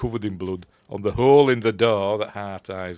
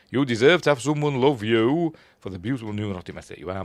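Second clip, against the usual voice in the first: rom-com monologue; faster than usual. Retold or imitated. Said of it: "listen to me, she does this now".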